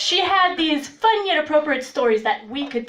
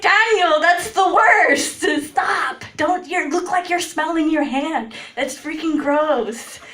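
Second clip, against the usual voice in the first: laughing shout; 5 semitones higher than usual. Retold or imitated. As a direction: yell at him through laughter to stop. Escalating scolding while laughing.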